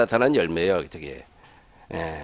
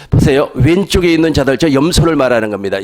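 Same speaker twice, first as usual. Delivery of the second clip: preaching loudly; 6 dB louder than usual. Real, not acted. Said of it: "preacher stressing the point".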